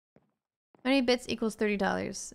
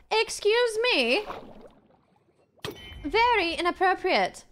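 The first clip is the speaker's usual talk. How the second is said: affronted; 7 semitones higher than usual. Pretend. Affronted diva act.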